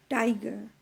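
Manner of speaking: "Tiger" with stressed "Ti" and unstressed "ger"; stress on first syllable. Shown as a demonstration. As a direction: lean on the "Ti" in "Tiger". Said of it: "stressed on the first syllable".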